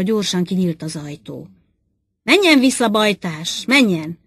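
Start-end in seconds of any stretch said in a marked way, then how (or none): 2.2-4.2 the boss barks the guard back out in a panic; hysterical shout. Acted. Boss orders the armed guard out, hysterical shout. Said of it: "kiáltott rá a főnök hisztérikusan".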